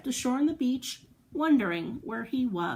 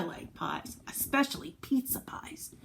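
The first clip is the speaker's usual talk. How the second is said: softer, secret-sharing whisper; 3 semitones higher, 6 dB quieter than usual. Pretend. Telling children a favourite food, playful whisper. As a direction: lean in and confide it. Confiding aside to kids.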